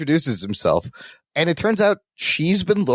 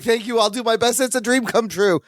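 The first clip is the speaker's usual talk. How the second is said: lightly acted gush, pitched up; higher, eager thanks with a touch of fawning; 5 semitones higher than usual. Writer thanking Olivia for a dream chance, mildly gushing. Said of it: "He continues to gush over".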